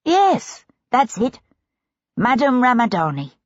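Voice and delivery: high, quick agreement; eager clerk. Acted. Clerk confirming the victim's name to his lord, eager. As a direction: blurt the name out.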